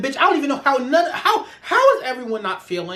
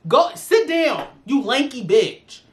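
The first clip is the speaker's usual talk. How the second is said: scolding the bully; 2 semitones higher, slower than usual. Pretend. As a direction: tell him to sit down, slowly and with contempt.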